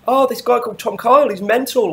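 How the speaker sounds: mock the caller's breathless outrage; semi-hysterical rant. Caller ranting to Brian, mimicked as hysterical. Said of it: "a bit semi-hysterical homo rant".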